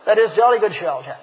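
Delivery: lightly put-on posh English accent, laughing; mock English accent. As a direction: tease the English with a stiff-upper-lip English accent. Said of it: "English people are rather conservative".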